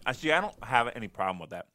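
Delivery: talking while eating a bagel; mouth full. Real, not acted. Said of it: "Sorry, I'm eating my bagel still".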